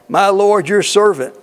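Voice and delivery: butter him up with my lord; fawning flattery. Retold or imitated. Preacher acting out Jacob flattering his brother, fawning. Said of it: "Do we do that?".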